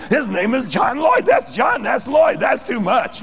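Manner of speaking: high, loud, excited exclamations; amazed onlookers. Retold or imitated. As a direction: exclaim like an astonished crowd overhearing. Voices amazed onlookers in restaurant.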